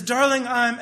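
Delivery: lofty suitor's declaration; poetic wooing. Acted. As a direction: launch grandly into a love poem. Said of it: "trying to be all poetic".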